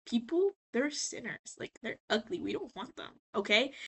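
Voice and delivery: soft, dismissive sneer; a hint of snooty angel; dismissive Heaven. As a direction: brush the sinners off quietly, lightly mocking. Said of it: "Heaven's like".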